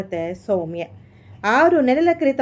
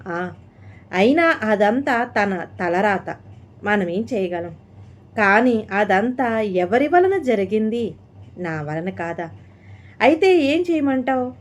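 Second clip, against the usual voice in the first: angrily. Acted. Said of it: "కోపంగా అంది వసుంధర".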